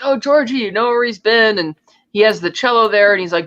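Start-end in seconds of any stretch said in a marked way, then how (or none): 0.0-1.6 higher-pitched voice for the woman in the story; imitating eager woman. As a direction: lightly act out her hopeful question. Voicing the woman in retelling.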